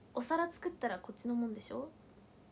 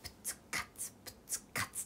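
heartbeat imitation; 9 dB quieter, faster than usual. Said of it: "マイクに心臓を近づけて".

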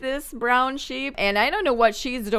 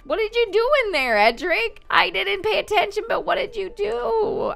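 playful scolding; 10 semitones higher than usual. Real, not acted. Scolding the sim Edric.

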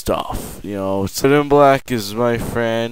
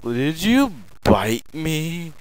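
mock shock; 2 semitones higher, much slower than usual. Pretends snake bit his foot.

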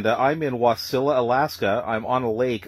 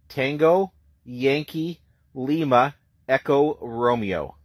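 slow, each letter word spaced out clearly; slow deliberate spelling; slower than usual. Shown as a demonstration. Spelling his call sign slowly for the radio contact, careful and clear. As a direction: spell it out slowly so it gets through the static. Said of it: "spell it for me phonetically one more time".

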